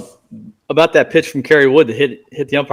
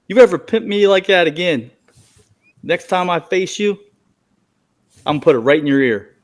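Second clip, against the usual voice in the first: retold threat with attitude, higher at first; Billy Wagner; 4 semitones higher than usual. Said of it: "just total attitude".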